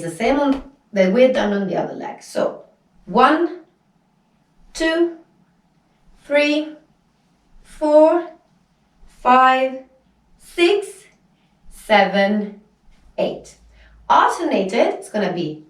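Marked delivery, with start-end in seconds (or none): 3.1-13.6 raised, evenly spaced dance counts; counting out reps. Shown as a demonstration. Teacher counting hip lifts on the other leg, spaced count-out. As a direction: call each count on its own beat.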